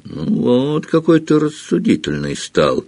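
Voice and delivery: high gleeful mockery. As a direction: gloat over the scared boy. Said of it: "В голосе Филча была радость".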